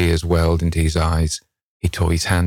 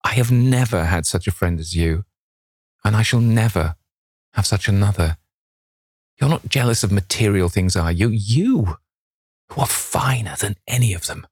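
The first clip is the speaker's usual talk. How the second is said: higher-pitched, heartfelt reassurance; earnest pleading; 4 semitones higher than usual. A narrator's reading. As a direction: plead sincerely, rising on the key words. Hallward pleads with distressed friend.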